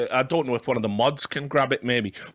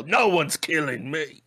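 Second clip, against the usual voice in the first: Ross Kemp; 2 semitones higher, slower than usual. Retold or imitated. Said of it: "Ross Kemp on Gangs".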